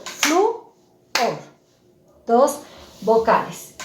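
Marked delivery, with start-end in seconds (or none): 0.0-0.7 flu, then o jumps up high; syllable by syllable. Shown as a demonstration. Teacher sounding out a word for pupils, syllable by syllable. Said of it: "Entonces digo".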